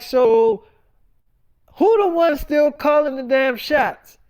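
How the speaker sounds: laying down the law to his wife; mock angry. Retold argument with wife Tanera.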